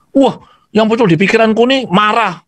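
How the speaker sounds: father telling the counselor he feels angry; father's voice. Retold or imitated. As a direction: play the frustrated father owning up. Father admits he feels anger.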